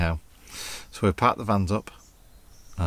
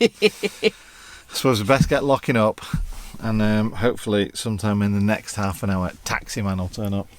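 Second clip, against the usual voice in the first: put-on Northern accent. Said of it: "I don't know why we're doing Northern accents".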